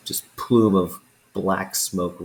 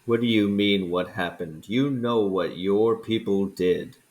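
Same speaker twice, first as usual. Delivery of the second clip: put-on weary old dragon airing a grievance; lightly voiced resentful dragon. Dragon scolds the adventurers about their people, lightly voiced.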